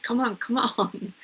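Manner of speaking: hammed-up taskmaster driving herself on; cracking the whip. Pushing herself too hard, a mock-stern slave driver. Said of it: "we crack the whip".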